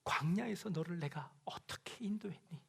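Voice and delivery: soft whispered question from God; God whispering. Acted. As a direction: breathe the question to them. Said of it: "라고 물어보십니다".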